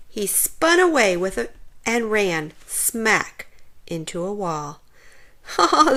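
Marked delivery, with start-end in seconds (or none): 5.2-5.9 a single loud high ha; gloating laugh at the prank; triumphant bark of a laugh; ghost's laugh. A narrator's reading. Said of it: "the ghost laughed".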